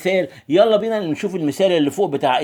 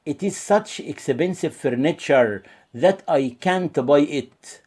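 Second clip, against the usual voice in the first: slow model sentence; much slower than usual. Shown as a demonstration. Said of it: "نشوف كده تاني".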